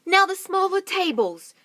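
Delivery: loud, high call; shouted order. Acted. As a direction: call out the next job. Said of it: "shouted Mugglewump".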